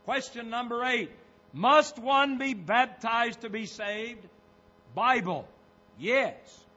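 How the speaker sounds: deliberate sermon quoting; preaching quotation. Real, not acted. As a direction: read it out firmly to a congregation. Preaches from quoted tract.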